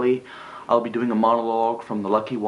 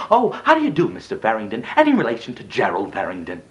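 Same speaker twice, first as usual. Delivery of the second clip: mimicked polite acquaintance. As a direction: imitate an effusive stranger being introduced. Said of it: "it went on just the same".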